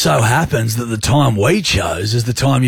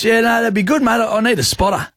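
higher mate voice, casual; imitating a gym buddy asking for a spotter; friend's voice note, mimicked higher; Smithy impression; 7 semitones higher than usual. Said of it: "Smith Tech impression".

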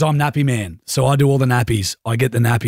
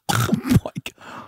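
retold shock; 11 semitones higher, 4 dB quieter than usual. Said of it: "We go".

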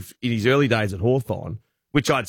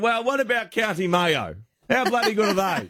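hammed-up Irish banter; 6 semitones higher than usual. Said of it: "And I said".

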